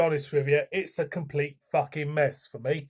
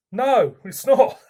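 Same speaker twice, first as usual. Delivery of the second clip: emphatic no; 7 semitones higher, 7 dB louder, slower than usual. Real, not acted. Verdict on the beer.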